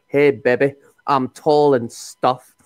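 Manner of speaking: lightly voiced dim teen, slow; a hint of a dopey cartoon teen; Beavis voice. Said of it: "when Beavis was trying to pick up a girl".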